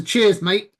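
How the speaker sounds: everyday British "cheers, mate"; British accent. Shown as a demonstration. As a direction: contrast it as the British version. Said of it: "as opposed to".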